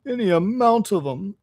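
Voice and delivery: high, plaintive Toad; mock sobbing. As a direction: play the weepy washerwoman. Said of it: "sobbed Toad".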